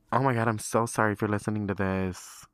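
real embarrassed outburst; mortified apology. Real, not acted. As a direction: apologize outright, pushing the volume. Apologizes outright to the listener.

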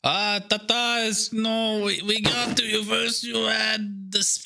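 high, slow hammed-up Spanish accent; mock Spanish character. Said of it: "to do it in character".

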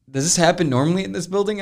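high-pitched imitation of a baffled man; retold incredulous question. Installer asking the tenant about the building, mock bewilderment. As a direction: act out his disbelief, pitched well up.

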